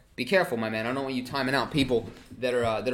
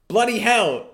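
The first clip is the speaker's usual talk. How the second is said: a loud, high, hammed-up British "Bloody hell"; mock British exclamation; 7 semitones higher, 9 dB louder, slower than usual. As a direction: toss it out like a stage Englishman. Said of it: "That's something I don't even say".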